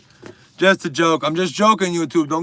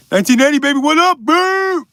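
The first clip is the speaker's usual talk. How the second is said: flirty; 12 semitones higher, 9 dB louder than usual.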